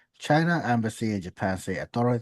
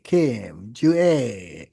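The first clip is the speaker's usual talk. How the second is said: calling out; 5 dB louder, much slower than usual. Pretend. Calling out a name.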